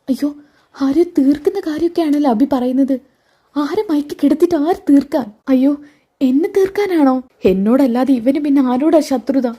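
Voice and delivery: startled wife thinking aloud; Navya voiced. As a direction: gasp it out, suddenly afraid for herself. Narrator voices Navya's alarmed thoughts.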